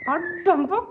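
high, soft coo to the cat. Real, not acted. Coaxing the kitten to look, soft high coo. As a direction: coax the kitten gently in a high voice.

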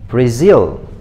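"Brazil" stressed on the second syllable; careful isolated "Brazil", rising then falling on the stress; model pronunciation. Shown as a demonstration. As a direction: demonstrate "Brazil" with the weight on "zil". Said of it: "learn how to say it with me".

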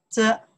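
着 said alone, loud and level; 着 as an isolated tone demo; first tone. Shown as a demonstration. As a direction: hold 着 on an even pitch. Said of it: "the first tone".

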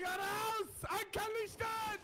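high, slow captain's call; shouted order. Acted. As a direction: bellow it like a ship captain.

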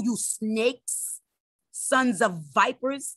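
voicing Jesus. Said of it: "Jesus called them".

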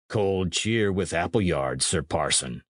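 plain reading voice

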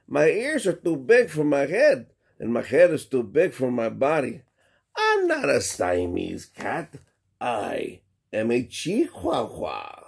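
a hint of a Spanish accent; lightly mock Spanish-accented kitten. Skippy trying a Spanish accent at the mirror. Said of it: "using his best Spanish accent".

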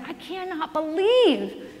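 hammed-up outrage at the airline, laughing through it; indignant. Friend in the wheelchair fumes at the airline, mock indignant. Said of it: "he's, like, indignant".

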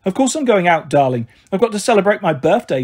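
lightly voiced Marigold, lively pitch swings; breezy Marigold. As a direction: brush off the objection airily, lightly acted.

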